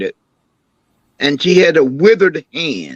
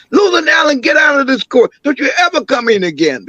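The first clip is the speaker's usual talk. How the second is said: court shout; 8 semitones higher than usual. Retold or imitated. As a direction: bark her out of the courtroom like a court officer. Court officials throwing grandmother out.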